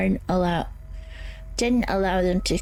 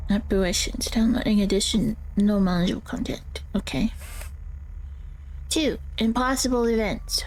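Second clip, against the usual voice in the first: character voice. Acted. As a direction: guide narrator voice, eerie and measured. Reads ghost-hunting guide in character.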